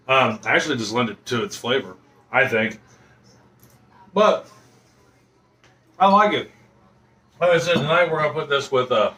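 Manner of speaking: talking through a mouthful of food; chewing while speaking; mouth full. Real, not acted. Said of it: "sorry, I keep talking with my mouth full".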